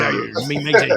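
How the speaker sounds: playful pirate arr. Retold or imitated. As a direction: ham up a pirate. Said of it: "Cam's gonna be in the bathroom going".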